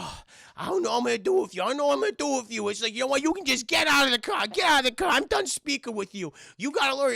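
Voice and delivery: high, loud, rattled scolding; exasperated Whitey. Acted. Whitey ordering Davey out of the car, exasperated high voice. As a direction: rush the first words, then order loudly up high. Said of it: "And he's just like".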